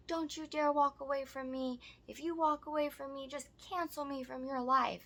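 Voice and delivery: high-pitched imitation of his threats; mock dramatic ultimatum. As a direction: mimic an overwrought, clingy man. Mimics man's threat on the steps.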